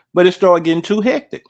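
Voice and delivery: words round a bite of food; chewing while talking; mouth full. Real, not acted. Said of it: "I'm eating my breakfast".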